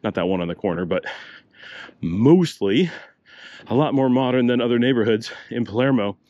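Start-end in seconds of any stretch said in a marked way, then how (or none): 2.0-6.2 out of breath from walking; slightly winded speech; breathing hard. Real, not acted. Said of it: "If I sound like I'm breathing hard".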